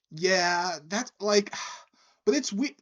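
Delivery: high, loud, halting protest; worked-up bar patron. Retold or imitated. Drunk patron doubts the octopus is real, imitated protest. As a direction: pitch it up, stumbling for the words. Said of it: "He was like".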